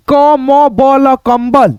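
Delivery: slow spelling out. Shown as a demonstration. Teacher sounding out कंबल for students, slow and deliberate. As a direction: spell क म ब ल one sound at a time, then say कंबल whole. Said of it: "यहाँ पे पढ़ो कम".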